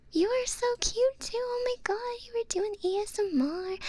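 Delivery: high, excited fangirl gush; gushing admiration. Real, not acted. Streamer complimenting a fellow ASMR streamer, high and gushing. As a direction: gush high, delighted by them.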